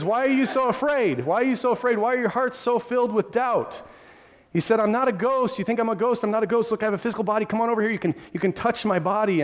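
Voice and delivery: a hint of Jesus, gently urging them closer; Jesus reassuring.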